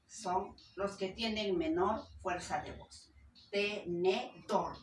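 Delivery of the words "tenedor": Tenedor slowly in syllables, te-ne-DOR, last one strongest; drawn-out Tenedor with the final syllable punched; stress on DOR. Shown as a demonstration. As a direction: split Tenedor and land hard on dor. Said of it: "Dor sería tónica".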